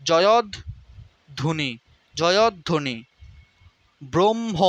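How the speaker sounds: slowed model of জয়ধ্বনি; slow syllable drill. Shown as a demonstration. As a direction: stretch জয়ধ্বনি, jo-yo-dho-ni. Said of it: "pronunciation drill".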